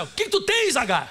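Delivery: the angel of God scolding a weeping Agar; angel rebuking Agar. Acted. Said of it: "Olha o que ele falou pra Agar".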